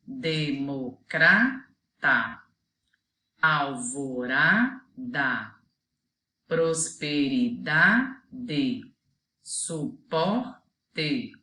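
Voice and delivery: each word drawn out slowly, syllable by syllable; slow example words. Shown as a demonstration. Teacher reading examples to children, slow and clear. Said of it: "eu coloquei aqui alguns exemplos".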